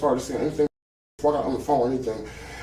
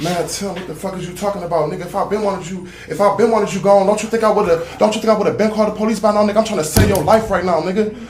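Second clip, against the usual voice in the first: retold angry yelling; 5 semitones higher than usual. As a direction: fire it back hot and fast, mock yelling. Retold armed standoff, quoting gunman.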